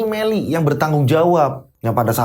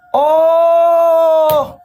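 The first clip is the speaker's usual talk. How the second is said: high, loud shocked shout; angry outburst; 6 dB louder than usual. Acted. Husband exploding at his wife, loud shout. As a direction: blurt it out in outrage.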